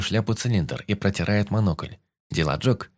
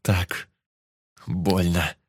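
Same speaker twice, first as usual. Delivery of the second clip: through gritted teeth; much slower than usual. Acted. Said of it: "заскрежетал я зубами".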